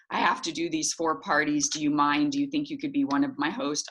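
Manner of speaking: dutiful, unexcited request; desperate, reluctant ask. Shown as a demonstration. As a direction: ask as if it's a chore you have to do. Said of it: "It's all in how you present it".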